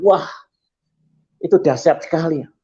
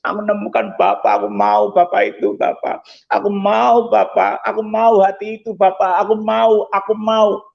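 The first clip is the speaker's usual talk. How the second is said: choked, pleading prayer to God; tearful plea. Retold or imitated. Preacher reliving his first prayer to God, tearfully pleading. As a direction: plead through tears, repeating it with growing insistence. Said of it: "Saya itu nangis".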